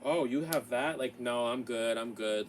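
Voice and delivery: loud, dismissive brush-off; dismissive mock rejection. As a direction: wave them off like an ignorant snob. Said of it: "ignorant people ... be like".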